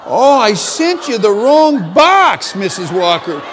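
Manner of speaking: slow, loud, high, laughing sorry; laughing apology. Retold or imitated. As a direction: drag out the embarrassed apology. Embarrassed apology retold.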